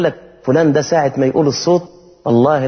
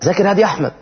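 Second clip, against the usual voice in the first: nagging mother; 5 semitones higher, faster than usual. Pretend. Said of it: "مش عمالة تقول".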